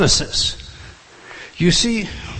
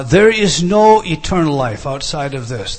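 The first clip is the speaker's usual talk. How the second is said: emphatic declaration; 7 dB louder than usual. Acted. Preacher stresses key point.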